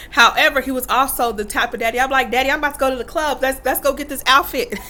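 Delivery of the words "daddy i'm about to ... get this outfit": fast, bright mock-eager daughter. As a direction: rush it like a kid begging to go out.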